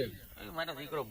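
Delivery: put-on a doubting old father grumbling about his son; low soft grumbling father. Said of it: "હું કે".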